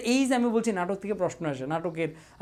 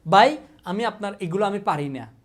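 whiny student; 6 dB louder than usual. Pretend. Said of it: "না পারলে বল".

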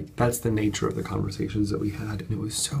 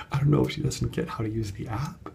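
whispered through a giggle; laughing whisper. Real, not acted. Vlogger telling viewers about the guest, whispering with a laugh. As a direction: let the laugh leak into a hushed aside.

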